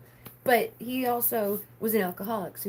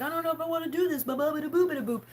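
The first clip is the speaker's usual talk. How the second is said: high, fast, sing-song brush-off; fast, high mock babble; mock whiny dithering; 6 semitones higher, faster than usual. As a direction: playfully mimic your own waffling. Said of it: "That's why I was like".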